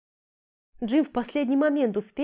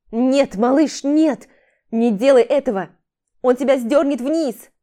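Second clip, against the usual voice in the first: loud desperate yell, no; yelling from the sidelines; 4 semitones higher, 8 dB louder than usual. Acted. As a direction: scream a warning from the stands. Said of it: "закричал с трибуны".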